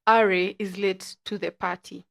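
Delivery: slow, careful show name; each word of "Ari is late to the party" given room. Shown as a demonstration. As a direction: spell it out slowly for a first-time listener. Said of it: "I'm gonna say it slow".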